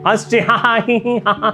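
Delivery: spelled-out ha ha hee hee; light mock giggle; mock laughter. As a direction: imitate the kids giggling. Imitating family laughing at comedy.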